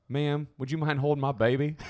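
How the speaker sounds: put-on light Southern accent, courteous; Southern gentleman. Southern dad apologizing to fellow passengers, light Southern accent. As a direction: imitate a polite Southern man lightly. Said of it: "was just a Southern gentleman".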